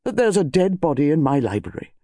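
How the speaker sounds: incredulous demand, running on to "my library". Acted. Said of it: "demanded Colonel Bantry".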